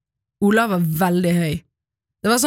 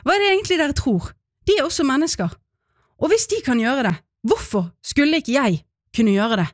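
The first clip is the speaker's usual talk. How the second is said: higher, quick-starting retold protest; understated breathless indignation; 4 semitones higher, faster than usual. Child arguing they are people too, mildly indignant. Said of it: "Jeg fortsatte litt andpusten".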